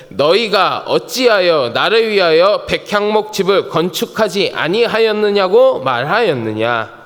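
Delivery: loud, steady scripture reading. Real, not acted. Pastor leads congregation in reading the passage, loud recitation. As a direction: read it out firmly for the congregation.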